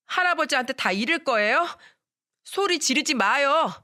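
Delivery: 높은 아이 목소리로 울먹이듯 항의; 할머니를 막아서는 어린 아들처럼 떼쓰며; pleading little boy. Acted. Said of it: "이렇게 말을 합디다". (할머니에게 대드는 어린 아이, 높고 간절한 목소리)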